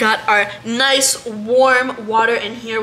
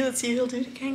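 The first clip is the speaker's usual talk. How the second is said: ordinary delivery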